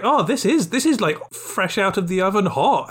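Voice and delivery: high, delighted surprise; amazed customer. Acted. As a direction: gush about hot pizza. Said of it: "It's like".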